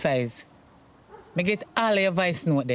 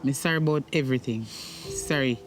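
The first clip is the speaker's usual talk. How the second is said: remorseful apology; 4 semitones lower than usual. Acted. Mother apologises to son.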